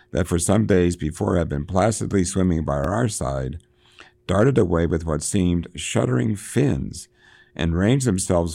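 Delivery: declaimed classic sea-novel prose; reading aloud. A narrator's reading. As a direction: read the passage out with swelling stresses. Reads a passage aloud.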